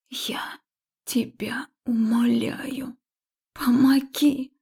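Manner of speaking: slow, pleading whisper; emotional hoarse whisper. Acted. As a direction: whisper the plea, hoarse with feeling. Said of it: "Тихо, но с эмоциями шепнула я охрипшим голосом". (хриплый шёпот с мольбой)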